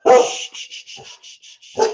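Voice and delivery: unvoiced shushing; steady shh to calm a pet; hushing. Real, not acted. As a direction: hush the dog down. Hushing the dog.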